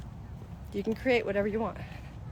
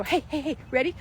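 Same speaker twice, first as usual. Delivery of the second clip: put-on soothing a toddler; 6 semitones higher than usual. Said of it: "my daughter would go".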